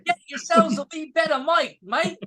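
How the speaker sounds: mock Australian accent, playful jab. Teasing about the bad mic in an Australian accent. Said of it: "That's Australian".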